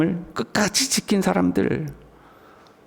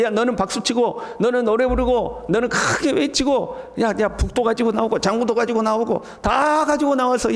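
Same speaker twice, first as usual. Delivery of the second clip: raised-pitch, urging roll-call; rallying call; 5 semitones higher than usual. Acted. Preacher rousing everyone to bring drums and praise, urging. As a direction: rouse each one to join in. Preacher voices crowd being roused.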